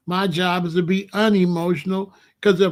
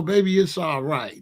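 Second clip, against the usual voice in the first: lower, comforting tone; reassuring; 3 semitones lower than usual. Acted. Man reassuring his crying woman, gentle comfort. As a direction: ease her worry gently. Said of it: "We here to make her know".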